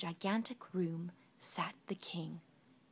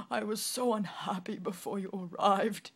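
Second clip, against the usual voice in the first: loud plaintive wail; king wails to Sunshine; 5 dB louder than usual. Acted. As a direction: wail it to her. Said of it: "he wailed".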